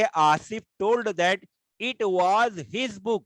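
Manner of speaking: dictating the indirect sentence slowly; slow dictation. Shown as a demonstration. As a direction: read the new sentence out slowly for the class. Teacher reads converted sentence.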